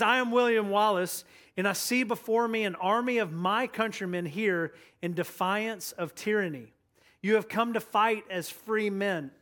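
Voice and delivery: lightly acted rallying battle speech; William Wallace. Pastor quotes a leader charging up his men, mildly rousing. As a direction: address the troops in measured, mildly stirring phrases. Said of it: "trying to charge them up".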